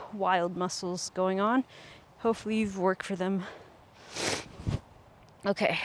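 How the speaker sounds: sniffly blocked nose; stuffy nose. Real, not acted. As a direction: talk through a stuffy nose. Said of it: "sorry about my sniffles".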